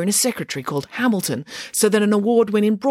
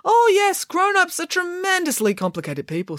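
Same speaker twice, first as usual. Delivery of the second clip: emphatic. Acted. Nanny Piggins declaring.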